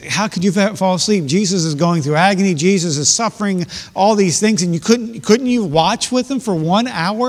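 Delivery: mock scolding. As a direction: scold them as if they let Jesus down. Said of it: "I like to beat them up for this".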